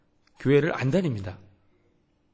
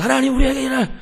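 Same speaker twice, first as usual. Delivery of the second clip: high, loud, hurried crying out to God; demonstrated loud prayer; 10 semitones higher, 9 dB louder than usual. Retold or imitated. Pastor showing how he prays in front of youths, loud calling out. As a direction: call out urgently in prayer. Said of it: "이렇게 기도합니다".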